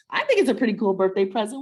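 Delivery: light chuckle running through the words, quick; laughing. Real, not acted. Mom laughing as she teases her daughter about her birthday present. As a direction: laugh it off while teasing her.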